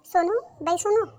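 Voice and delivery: stretched calling of a name. Acted. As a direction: draw out सोनू to call her from another room. Mother-in-law calls daughter-in-law.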